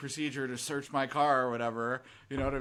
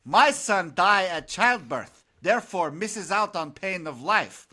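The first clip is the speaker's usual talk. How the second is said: put-on Russian joke accent; 2 semitones higher, 6 dB louder, slower than usual. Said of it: "third farmer said".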